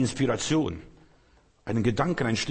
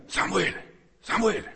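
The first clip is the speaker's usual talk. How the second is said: calling high and rising, second call higher; 8 semitones higher than usual. Acted. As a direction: call the boy's name twice across the dark. God calls boy again.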